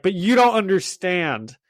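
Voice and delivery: mock Russian accent. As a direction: imitate an aggrieved Russian-accented teen, lightly. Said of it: "he's doing it all in, like, a Russian accent".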